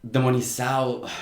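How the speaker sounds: "Demonizado" with the S and final D barely pronounced; imitated slurred pronunciation. Reviewer mimics a debater's unclear word, slurring "Demonizado". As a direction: swallow the consonants in "Demonizado", imitating him. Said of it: "almost not pronouncing the S and".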